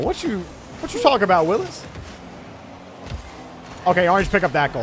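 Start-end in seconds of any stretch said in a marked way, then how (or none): 0.0-1.8 higher-pitched mock catchphrase; playful, lilting imitation of the famous line. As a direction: quote the sitcom line with pitch jumps. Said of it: "They saying".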